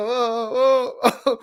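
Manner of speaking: high whooping oh oh, imitating the player; hammed-up celebrating yelps; mock celebration cry. Imitating a player celebrating a touchdown, high whoops. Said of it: "he's just going like".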